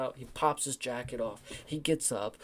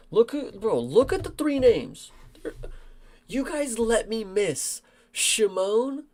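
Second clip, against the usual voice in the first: high, loud indignant protest; exasperated outburst; 9 semitones higher, 6 dB louder, slower than usual. Real, not acted. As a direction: raise your voice, accusing the listeners. Upset he missed favorite fighter's match.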